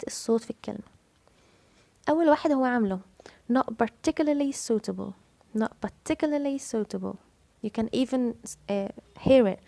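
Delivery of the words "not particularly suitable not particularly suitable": "particularly" stressed on its second syllable, "tic". Shown as a demonstration. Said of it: "فاحنا جينا على ال تيك". (التشديد على "tic" في "particularly")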